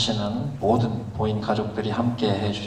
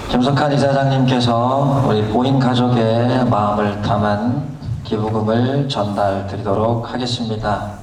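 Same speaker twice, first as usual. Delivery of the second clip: louder emcee announcement to the hall; loud announcing; 5 dB louder than usual. Real, not acted. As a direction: project it across the hall like an emcee.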